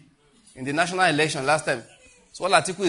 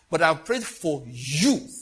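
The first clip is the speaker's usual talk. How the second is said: slow solemn quote; 4 dB louder, much slower than usual. Retold or imitated. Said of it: "God just said".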